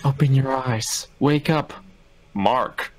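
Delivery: flat robotic game voice, slow; monotone game voice. Pretend. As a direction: read it like a lifeless game line. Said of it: "in a completely monotone voice".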